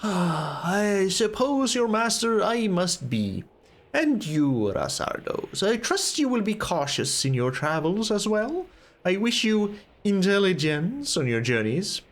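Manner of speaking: weary sigh into formal farewell; a hint of dry old mentor; lightly voiced resigned wizard. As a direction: give a measured, reluctant blessing.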